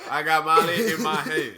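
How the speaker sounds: giggling through a mock dealer quote; laughing while imitating a dealer; laughing mock dealer line. Friend mimics dealer, laughing.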